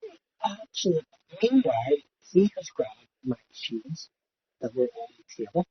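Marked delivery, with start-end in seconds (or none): 0.0-1.0 higher, playful indignant cry; hammed-up betrayed yell; mock outrage. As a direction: fake fury at a beer thief.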